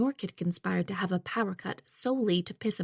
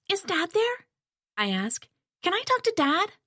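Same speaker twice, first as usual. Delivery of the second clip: pleading question; 10 semitones higher than usual. Acted. Daughter asking for father.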